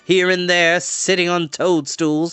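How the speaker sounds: chatty, sing-song sorceress; cheery enchantress. Acted. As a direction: coax the children like a kindly witch. Enchantress voice held.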